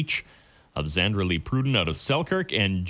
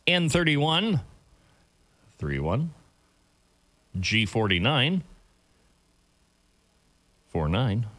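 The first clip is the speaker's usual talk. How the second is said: bingo caller. Real, not acted. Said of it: "I'm your bingo caller for this morning's games".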